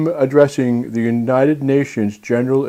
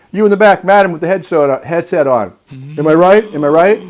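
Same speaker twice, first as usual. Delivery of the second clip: Donald Trump impression; 2 semitones higher than usual. Host mimics a candidate addressing the United Nations, blustering. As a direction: work the crowd like a boastful politician. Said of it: "I'm gonna go to my Donald Trump impression".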